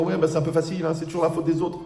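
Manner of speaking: lightly acted indignation; mock protest. Acts out a whining objection.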